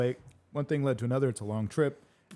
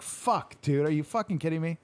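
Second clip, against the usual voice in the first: high, raised retold outburst; exasperated disbelief; 5 semitones higher than usual. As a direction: throw up your hands in disbelief.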